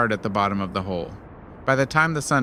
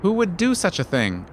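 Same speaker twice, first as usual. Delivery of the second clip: mock gasp; 7 semitones higher than usual. A narrator's reading. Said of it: "Anansi gasps".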